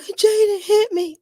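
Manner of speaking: high, slow tattletale whine; whiny tattling child. Retold or imitated. Mother imitating her child tattling, high and whiny. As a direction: whine it like a kid telling on a brother. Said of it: "they can't come to me like".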